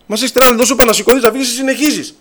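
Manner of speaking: high-pitched imitated rant; exasperated scolding. Patient fed up with the brother who keeps preaching, exasperated scolding. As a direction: act out losing patience with a persistent visitor. Acted patient ordering evangelist out.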